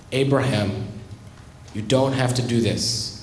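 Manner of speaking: low, grave voice of God, held back. Acted. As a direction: speak as God, low and calm. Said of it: "And God says".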